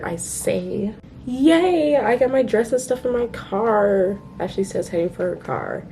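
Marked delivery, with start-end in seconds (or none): 1.2-4.2 bubbly, lifted excitement; excited cheer. Acted. Excited friend's line acted out.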